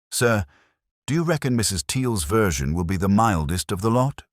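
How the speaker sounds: a hint of a keen junior officer; curious young sergeant. Sergeant voiced asking.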